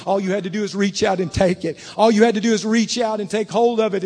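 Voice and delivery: insistent, swelling sermon voice; forceful preaching. Real, not acted. Pastor voicing God's answer in eternity, forceful preaching.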